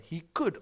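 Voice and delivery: "could" lifted and punched; emphatic rising "could"; stress on could. Shown as a demonstration. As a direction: land firmly on "could" as the key word. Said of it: "the key emphasis on the word is".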